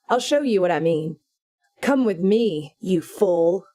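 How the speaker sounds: loud, taunting Satan voice addressing the listener; gleeful devil host. Acted. Satan welcoming the reader, loud and mocking. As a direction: sneer and gloat like a devil luring you in.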